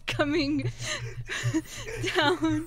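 laughter breaking up the words; crying with laughter. Real, not acted. Telling the guys about tears coming, crying with laughter. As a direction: report through real tears of laughter. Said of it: "There are legit tears coming".

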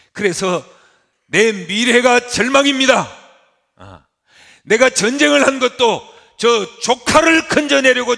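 높고 크게 절망을 외치는 강단 연기; 아브라함의 항변을 힘껏 쏟아내라; 절규하는 설교. Acted. (절망을 토해내는 외침)

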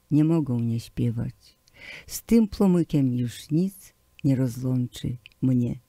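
plain reading voice

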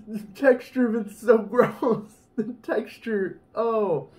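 muffled through fingers; speaking behind hands; hand over mouth. Real, not acted. Seen 1: Both hands cover mouth during early words; chewing itself not clearly visible.

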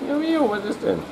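high cooing pet voice. Real, not acted. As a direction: coo at the cat up high. Cooing to the cat.

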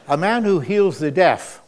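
chuckling incredulity at the discovery; amused disbelief. Retold or imitated. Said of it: "So I thought to myself, "Self".

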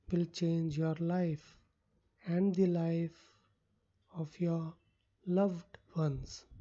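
measured meditation voice with long pauses; guided visualization. Acted. Coach leading listeners into a wealth palace visualization, unhurried guiding voice. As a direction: guide the listener phrase by phrase, leaving space.

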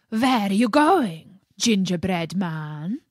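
loud wolf call. Acted.

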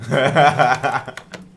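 short loud villain cackle; a quick wicked cackle; evil laugh. Pretend. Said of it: "risada maligna".

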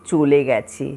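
poem performed as a two-person conversation, with measured pauses; dramatic poem recitation. Acted. Newcomer asking a local about old neighbours, dramatic recitation. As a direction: act out the questions and answers, questions lifting in pitch.

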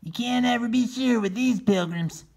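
high wary turkey; doubtful and uneasy. Acted. Solomon answering Regina on the run, wary. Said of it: "said Solomon".

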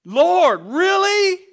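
loud, high, desperate plea; desperate cry. Retold or imitated. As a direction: cry out to the Lord in disbelief. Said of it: "The desperation in Peter's voice".

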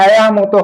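আয়া pronounced in two syllables, "e-ya"; "ai" said as "eya". Shown as a demonstration. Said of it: "উচ্চারণটা হয়".

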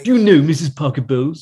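lightly voiced royal, out the side of the mouth; Prince Charles impression. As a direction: imitate a prince talking out of the side of his mouth. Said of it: "talk out the side of his mouth".

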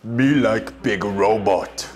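caveman talk. Acted. Caveman-style ad pitch.

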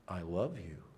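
low, soft coo with a lilt; acting out a mom greeting her newborn softly; tender new mother. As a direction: coo it gently to a baby. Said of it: "you say something like".

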